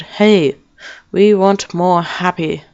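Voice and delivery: a touch of mock importance; mock proclamation. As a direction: put on a slow rallying call. Acting out a man's announcement.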